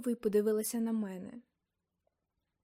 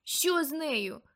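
cry out; 5 semitones higher, slower than usual. Acted. Nick crying out about the aunt, alarmed. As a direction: blurt it out in alarm. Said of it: "скрикнув Нік".

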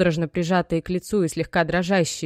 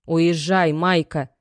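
louder urgent cry; mother urging her daughter to leave; exclaiming; 5 dB louder, slower than usual. Acted. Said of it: "воскликнула мама". (мать восклицает, громче)

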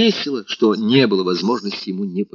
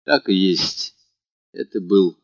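ordinary delivery, nothing marked

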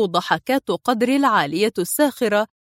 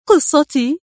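high, surprised question; astonished; 6 semitones higher, 4 dB louder, slower than usual. A narrator's reading. Woman puzzled by mention of her story, astonished. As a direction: echo it back in astonishment. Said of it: "قالت في دهشة".

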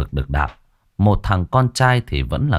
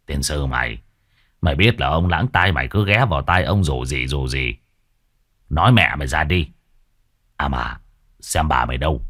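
furious; 5 semitones lower than usual. Acted. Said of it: "Lão điên tiết".

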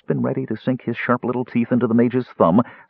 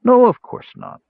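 soothing; 7 dB louder than usual. A narrator's reading. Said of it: "Justarius replied soothingly".

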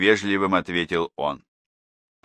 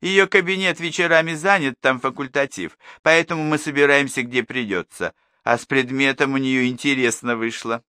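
gossiping neighbour; 6 semitones higher than usual. A narrator's reading.

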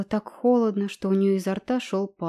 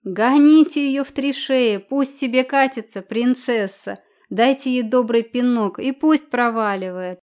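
laughing shout; 4 semitones higher, 6 dB louder than usual. Acted. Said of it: "сгибаясь от смеха, выкрикнула".

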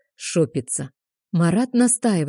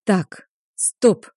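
sharp loud bark; barked command; 3 semitones higher, 4 dB louder than usual. Acted. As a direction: bark it to stop them. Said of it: "гаркаю".

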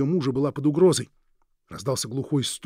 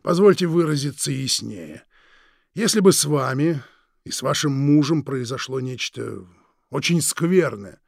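slow, silky, threatening drawl; menacing villain; 5 dB louder than usual. Acted. Villain Krieg menacing the Forbes couple, slow and silky. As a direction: savour each word like a veiled threat.

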